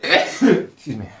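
a sneeze, then a slow high excuse me; sneezing. Real, not acted. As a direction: sneeze and apologize. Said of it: "Sorry for the sneezing".

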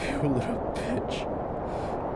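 slow, soft, voiceless hiss; venomous hiss. Acted. Widower to the man lecturing him, venomous hiss. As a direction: spit it out under the breath.

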